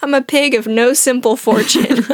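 giggling through the line; laughing while quoting; laughing Pooh quote. Retold or imitated. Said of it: "Winnie the Pooh's famous catchphrase".

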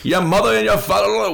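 high honking heckler taunt; goose voice. Retold or imitated. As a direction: honk it like a low-flying goose. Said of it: "he called it his low-flying goose voice".

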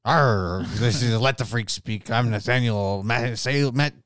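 hammed-up pirate growl; sailor voice. Host obeying co-host's request, mock sailor voice. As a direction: open on an arr like an old salt. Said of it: "Talk like a sailor".

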